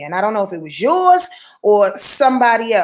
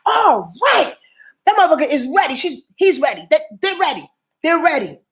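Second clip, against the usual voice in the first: voicing the ancestors; 5 semitones higher than usual. Ancestors voiced from other side.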